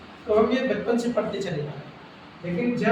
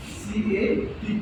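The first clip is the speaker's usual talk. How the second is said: slow spelling; much slower than usual. Shown as a demonstration. Teacher to pupils, spelling the word out very slowly. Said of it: "teacher spells word slowly".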